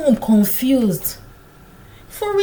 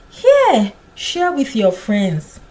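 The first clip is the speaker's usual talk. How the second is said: put-on kind young woman offering; 5 dB louder, slower than usual. Young woman handing corn to Samuel, kindly. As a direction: hold out the gift gently.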